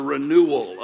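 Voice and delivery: "renewal" drawn out slowly; slow, weighted "renewal"; stress on renewal. Shown as a demonstration. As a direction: correct the word by leaning on "renewal". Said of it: "But it actually says".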